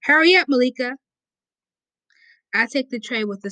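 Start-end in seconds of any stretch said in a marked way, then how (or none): 0.0-1.0 calling out, higher and louder; yelling across the room. Acted. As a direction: yell it across the lunchroom. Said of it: "Char's yelling".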